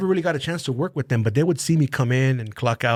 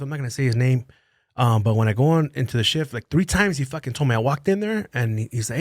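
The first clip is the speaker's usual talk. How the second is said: usual speaking voice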